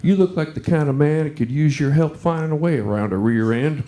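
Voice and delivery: a hint of a flirting redneck woman, voice dropped; sultry junkyard gal. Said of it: "and she said".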